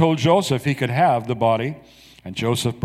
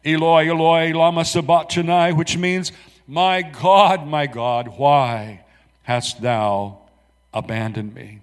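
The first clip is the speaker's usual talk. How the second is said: loud anguished cry; 2 semitones higher than usual. Acted. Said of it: "called out with a loud voice".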